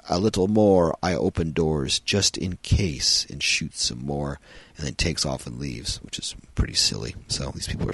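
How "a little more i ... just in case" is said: a bit higher, louder, slow robot line; lightly voiced robot, slow; mock robot. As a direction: drawl it out like a toy robot.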